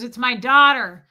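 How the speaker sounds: loud imitation of dad telling a crowd; dad announcing loudly. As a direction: call it out to everyone around. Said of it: "he says out loud".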